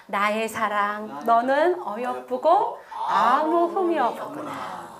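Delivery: the Lord tenderly calling his bride. Acted. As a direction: read it slowly like a loving groom. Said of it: "주님이 보실 때 뭘로 보시는".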